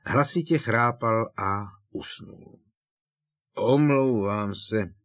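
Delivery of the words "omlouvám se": slow apology with a hiccup. Acted. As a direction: hiccup through it, tipsy. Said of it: "škytl Křiklan". (se škytnutím)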